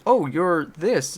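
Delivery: a fan gushing over the actress slowly. Retold or imitated. Fan gushing at the actress she met, drawn out and loud.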